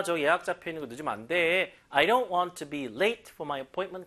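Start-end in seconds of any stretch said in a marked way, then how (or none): 1.9-4.1 slow, stress on "don't"; stressed model reading. Shown as a demonstration. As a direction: lean on "don't" for students. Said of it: "강세 주세요".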